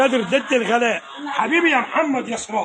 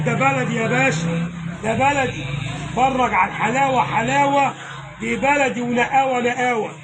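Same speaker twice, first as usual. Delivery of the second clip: hawker's call; slower than usual. Real, not acted. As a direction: cry out the prices like a street seller. Butcher hawking meat to passersby.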